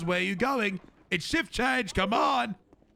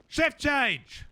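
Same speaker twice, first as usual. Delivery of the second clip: yelling; 3 semitones higher, much slower than usual. Acted. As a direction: yell it out to everyone. Chief yelling shift change repeatedly.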